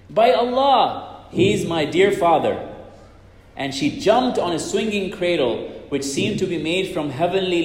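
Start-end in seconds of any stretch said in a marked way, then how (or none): 0.1-2.6 tearful exclamation. Acted. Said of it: "began to weep, exclaiming".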